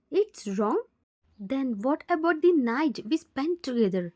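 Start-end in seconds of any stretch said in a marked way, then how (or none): 0.1-0.8 "It's wrong?" echoed back with a stunned rise on "wrong"; shocked echo. Acted. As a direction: throw his word back in disbelief, voice rising on "wrong".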